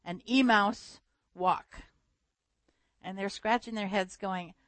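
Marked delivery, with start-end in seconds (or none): 0.0-1.8 mock German accent. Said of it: "with this heavy German accent".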